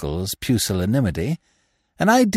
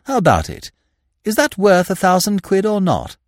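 put-on higher, eager young gentleman voice; 6 semitones higher than usual. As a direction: pitch the scheme like a keen young toff. Freddy voiced again.

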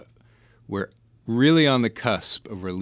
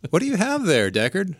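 put-on old man voice; 9 semitones higher, 4 dB louder than usual. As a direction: play the wise old Deckard Cain. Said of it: "you can do a pretty good old man voice".

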